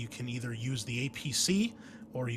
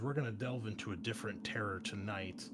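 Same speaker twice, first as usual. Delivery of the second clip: ordinary talk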